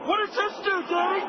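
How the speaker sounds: put-on high child's voice; hyper boy. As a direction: ask like a curious hyper kid. Son voice.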